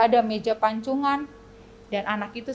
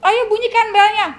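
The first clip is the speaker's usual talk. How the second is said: loud, high urging order; king's command; 9 semitones higher, 8 dB louder than usual. Acted. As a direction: call out the order like a king. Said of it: "Sama kata raja". (seruan raja dengan keras)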